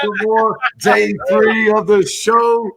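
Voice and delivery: high hyped radio host. Pretend. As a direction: greet the crowd like a DJ.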